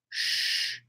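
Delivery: soft unvoiced shush; playful shush. Real, not acted. Streamer shushing chat for young viewers, playful whispered shush.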